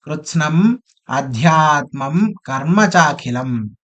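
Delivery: slow, measured chanting; Sanskrit recitation. Acted. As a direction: intone the phrase slowly. Recites the next verse phrase.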